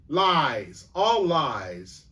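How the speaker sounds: loud indignant Badger crying lies; angry denial. A narrator's reading. Badger shouting down the dwarf, indignant. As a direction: fling back the accusation, loud. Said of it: "said the Badger".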